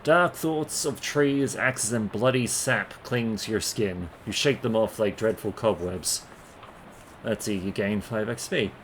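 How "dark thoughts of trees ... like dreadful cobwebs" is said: slow, brooding narrator read; dark fantasy narration, slow; dramatic story narration. Acted. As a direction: read the dark imagery slowly.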